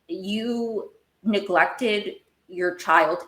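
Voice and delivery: slow, deliberate accusation; real anger. Real, not acted. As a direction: spell out the blame slowly, angered. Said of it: "really angers me".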